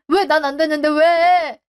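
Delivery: 억울함이 터진 느린 항변; 엄마에게 따지듯 서운함을 쏟아내기; frustrated outburst. Acted. Son protests to mother. (엄마에게 억울하게 따지는 목소리)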